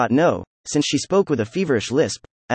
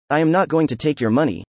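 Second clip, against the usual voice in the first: a mild, understated contempt in the refusal; contemptuous; 2 semitones higher than usual. Acted. Polina refusing the money from the narrator, mildly contemptuous. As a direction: turn the money down with a light touch of scorn. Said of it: "she said contemptuously".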